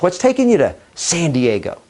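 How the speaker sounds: small beat before "San Diego"; unscripted-sounding question, "San Diego" after a brief hesitation; conversational pause. Shown as a demonstration. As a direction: ask it casually, setting "San Diego" slightly apart. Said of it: "Because it sounds more conversational".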